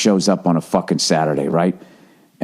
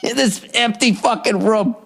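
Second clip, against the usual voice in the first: high, laughing through words; 12 semitones higher than usual. Real, not acted. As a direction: laugh while talking. Laughing after the shout.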